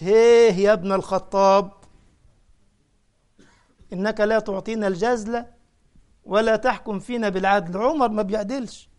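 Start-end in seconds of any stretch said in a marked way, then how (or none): 0.0-7.8 rude Bedouin hail. Shown as a demonstration. Preacher showing the rude way not to enter, loud and blunt. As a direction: bark it out like a coarse Bedouin. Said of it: "مش".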